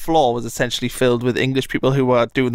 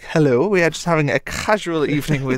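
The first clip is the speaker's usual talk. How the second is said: prim, innocent party host; mock-sophisticated host; 3 semitones higher than usual. Greeting police at the door, mock-sophisticated and innocent. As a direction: play the polite innocent to the police. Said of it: "Nice and sophisticated".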